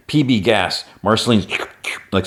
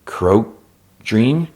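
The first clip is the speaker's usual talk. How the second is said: rising, disbelieving repeat of the words; sharply rising doubtful echo; incredulous question; 3 semitones higher than usual. Retold or imitated.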